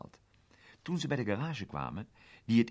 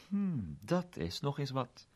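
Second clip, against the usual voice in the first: bewonderend; 7 semitones higher, slower than usual. Acted. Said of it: "zei meneer Eck vol bewondering".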